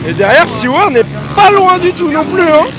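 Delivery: live play-by-play. Acted. Live motocross race commentary.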